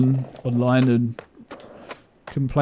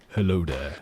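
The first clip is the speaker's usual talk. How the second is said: much lower, softer mock deep greeting; 8 semitones lower, 5 dB quieter than usual. Streamer asking chat if a deep voice gets more views. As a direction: rumble it like a movie villain. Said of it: "if I sounded like that".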